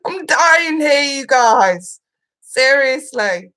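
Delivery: real emotional laughter breaking in; laughing. Real, not acted. Host laughing to chat about her emotions. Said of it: "the emotions have been running fucking high".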